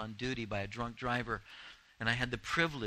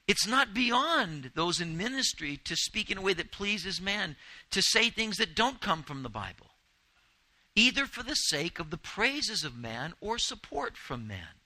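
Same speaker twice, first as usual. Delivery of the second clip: higher and louder, driving home the point; preaching at full force; 7 semitones higher, 4 dB louder than usual. Real, not acted. Preacher warning the congregation, higher and louder. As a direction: press the warning hard.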